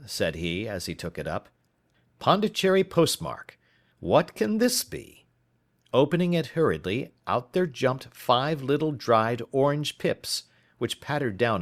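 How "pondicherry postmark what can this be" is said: much higher, slowing on the question; puzzled surprise. Acted. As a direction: wonder aloud what's in the strange letter. Uncle puzzled by foreign letter.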